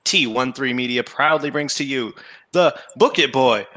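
booming ring announcer, slowing and rising at the end; ringmaster. Pretend. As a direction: drag out the big name like a circus announcer. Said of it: "can I show you how to do it".

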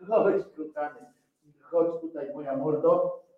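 soft, affectionate coaxing; tender pet talk. Real, not acted. Owner calling the dog over, tender and soft. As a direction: coax a beloved dog over gently.

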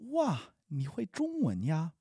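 slow, careful teaching pace; slowly. Shown as a demonstration. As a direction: spell each syllable out for the learner. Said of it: "I'll say it slowly and then quickly".

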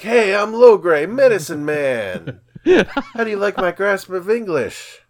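high, loud goofy Ewok. Retold or imitated. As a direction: ham up a silly Ewok.

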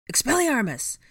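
high, loud incantation; shouted spell. A narrator's reading. Harry casts to disarm an attacker, shouting. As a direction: hurl the spell out.

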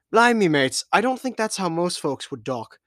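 cheery pirate captain calling his mates. Acted. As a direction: play the brash sea captain. The speaker voiced a pirate captain.

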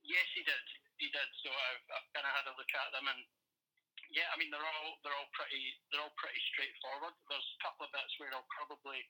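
tinny speakerphone sound. Real, not acted. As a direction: voice over a phone speaker. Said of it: "I've got you on speaker".

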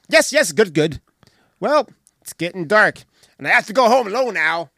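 a hint of an eager kid; hurried, lightly voiced boy; kid's voice.

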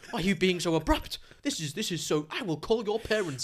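bad general American accent. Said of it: "in, like, a really bad sort of Ameri-, general American accent".

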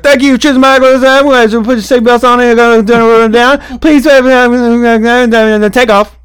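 high, loud hammed-up announcer; close-mic ride operator. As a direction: boom it into the mic like a ride host. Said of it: "they get real close to the mic".

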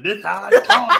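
mocking high, loud imitation; Samuel Jackson. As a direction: tease with an exaggerated voice. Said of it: "She be sounding like Samuel Jackson".

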